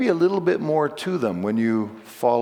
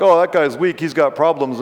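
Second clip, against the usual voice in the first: louder, scornful jab; a hint of a sneering critic, louder; mocking critics; 2 semitones higher, 5 dB louder than usual. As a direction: jeer at him like the opponents. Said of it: "So they're like".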